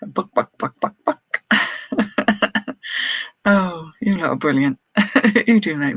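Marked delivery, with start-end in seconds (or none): 0.1-1.4 a hammed-up hen's buck-buck; mock chicken clucks. Seller teasing her chat with playful mock chicken clucking.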